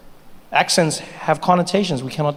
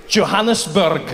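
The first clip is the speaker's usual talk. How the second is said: put-on Scottish accent; 2 semitones higher, slower than usual. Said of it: "speak to people in their accent".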